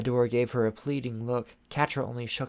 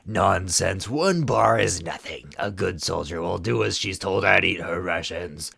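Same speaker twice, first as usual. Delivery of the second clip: stern commanding sorceress; 7 dB louder than usual. Acted. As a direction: overrule her firmly. Shadow Weaver insisting.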